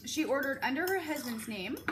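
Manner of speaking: talking through a mouthful of food; eating tuna fish. Real, not acted. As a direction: mouth full, chewing tuna. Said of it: "sorry, I'm eating tuna fish".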